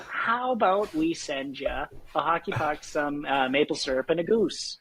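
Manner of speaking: jokey, hammed-up Canadian accent; playful Canadian sales offer. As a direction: let the Canadian accent come out for laughs. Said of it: "I can hear it coming out".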